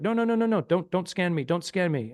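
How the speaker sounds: high, repeated mock-frantic pleading; retold alarm. Retold waving off the scanner.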